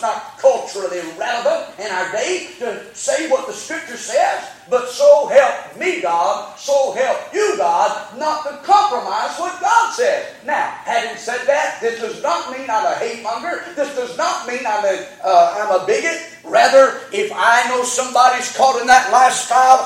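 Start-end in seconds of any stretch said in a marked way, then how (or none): 4.7-10.3 loud, slow, emphatic vow; fervent vow. Real, not acted. Preacher vowing loudly to his congregation. 16.4-19.8 louder, insistent preaching; raised insistence. Real, not acted. Preacher insisting loudly to the church he is no bigot.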